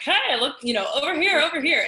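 high, loud eager calling. Retold or imitated. Crew calling her over for the camera, loud and eager. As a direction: wave someone over, excited and loud. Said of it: "they were like".

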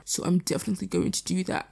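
breathless from talking fast; out of breath. Real, not acted. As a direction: talk with little breath left. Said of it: "I'm running out of breath".

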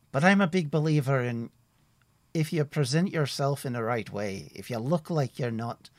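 a cheerful forest ranger chatting; friendly woodsman Tim. Acted. GM voices woodsman NPC.

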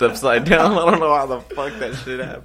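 loud, high fake-excited excuse; mock outrage. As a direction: ham up the bogus story.

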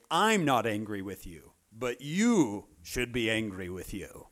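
slow, pointed fake forgiveness; passive-aggressive forgiveness. Shown as a demonstration. Speaker mocking his own forgiveness, slow and pointed. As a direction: forgive with a guilt trip. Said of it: "When I forgive someone, I say".

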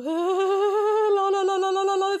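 high, loud sing-song giggly la-la; mock giggle. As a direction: mimic a coy girl laughing it off. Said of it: "Und die lacht dann so". (gespieltes kicherndes La-la, hoch und laut)

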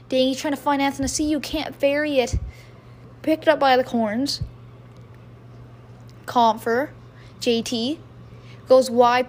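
brisk hockey play-by-play call; live play-by-play. Acted. Fan calling a hockey game to viewers, brisk play-by-play.

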